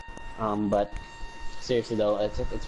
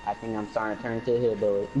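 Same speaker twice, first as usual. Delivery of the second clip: put-on fast Texas hillbilly accent; faster than usual. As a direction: rattle it off like a Texan. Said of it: "talking in the Texas accent".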